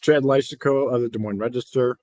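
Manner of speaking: talking around a cough drop; mouth full. Real, not acted. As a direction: lozenge in the mouth. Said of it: "I got a cough drop in my mouth".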